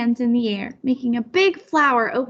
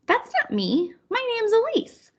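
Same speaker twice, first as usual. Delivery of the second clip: put-on child protesting; 10 semitones higher than usual. Child correcting grandma.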